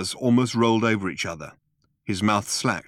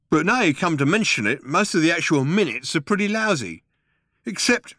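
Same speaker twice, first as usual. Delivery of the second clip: higher, musing alien guard; dim Vogon guard; 8 semitones higher, 3 dB louder than usual. A narrator's reading. Vogon guard thinking aloud.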